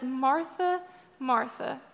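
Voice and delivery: calm a worried friend by name; tender call. Retold or imitated. Jesus gently calling Martha by name, tender. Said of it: "really kindly, really tenderly".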